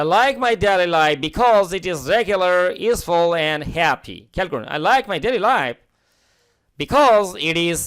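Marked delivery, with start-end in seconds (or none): 0.0-4.2 slow model reading. Shown as a demonstration. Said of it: "teacher reads model sentence slowly". 6.8-7.8 "because it is" with the t of "it" softened toward d; "it is" run together like "idiz"; American flap t. Shown as a demonstration. Teacher models American pronunciation for students, slow and clear. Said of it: "এই উচ্চারণটা it is হবে".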